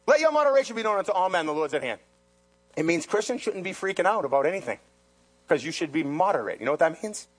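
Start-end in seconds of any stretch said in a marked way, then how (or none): 0.1-2.0 fast, plain recap of the verse; quick restatement. Acted. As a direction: run through it fast. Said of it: "What's that mean?".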